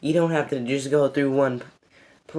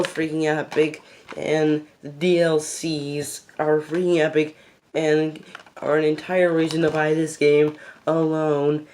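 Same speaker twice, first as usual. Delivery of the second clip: breathless after a long rant; running out of air mid-sentence; out of breath. Real, not acted. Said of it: "I just ran out of breath".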